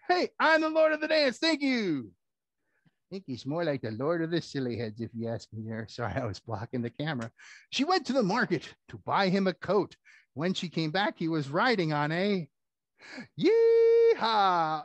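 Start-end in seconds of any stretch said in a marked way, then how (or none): 0.1-2.1 puppet dog shows off his jig; boastful dog. Acted. 13.4-14.8 high, loud cowboy whoop; cowboy yeehaw. Acted. Dog riding.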